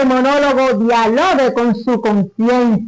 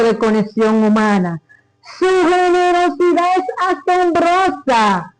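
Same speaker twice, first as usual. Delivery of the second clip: measured, ironic declamation; declaimed monologue. Acted. Performer reciting a monologue on corruption to an audience, ironic declamation. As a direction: declaim it deliberately, pausing between items in each list. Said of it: "la declamación del monólogo".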